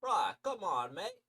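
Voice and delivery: Aussie mate calling out friendly; cheery Australian greeting; Australian accent. Acted. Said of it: "I'm gonna still keep the accent".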